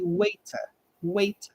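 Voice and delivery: "waiter" in British English, crisp T, no R, WAY-tuh; British English "waiter", T sounded. Shown as a demonstration. Teacher showing British English waiter. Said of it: "In British English".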